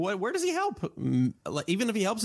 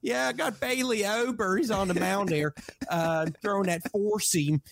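higher, playful imitation of a Baltimore radio voice; mock Baltimore announcer; 7 semitones higher than usual. Host dreaming aloud of an Orioles broadcast, light mock announcer voice. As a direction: ham up a hometown broadcaster call.

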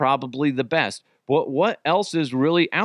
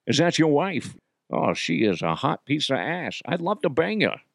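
lewd mock-Scottish star; Connery; 2 semitones higher than usual. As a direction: leer it in a put-on Scottish voice. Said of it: "Hey, do Connery DeHuff".

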